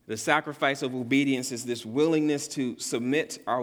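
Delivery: willingness leaned on as the key word; stress on willingness. Shown as a demonstration. Pastor urging congregation to obedience, stress on willingness. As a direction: press on willingness, let it land. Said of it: "Emphasis on willingness".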